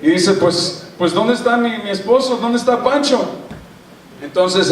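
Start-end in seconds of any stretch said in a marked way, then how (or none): 0.3-3.2 a high, fretful wife asking where her husband is; higher-pitched mock worry, searching for him; worried wife wondering where Pancho went. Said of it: "se pone toda media preocupada".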